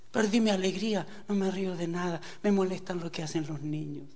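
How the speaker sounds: soft, listless lament; imitated sad woman. Preacher quoting a joyless woman visitor, mildly mournful.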